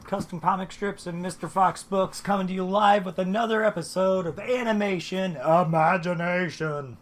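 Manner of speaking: hoarse from being sick; speaking through a sick, rough voice. Real, not acted. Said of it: "Sorry about my voice".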